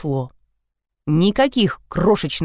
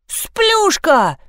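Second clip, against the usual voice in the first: high, indignant correction; stamping insistence; 10 semitones higher than usual. A narrator's reading. Liza corrects her brother's mocking name, indignant and high. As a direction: insist on it, stamping your foot. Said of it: "топнула ногой Елизавета".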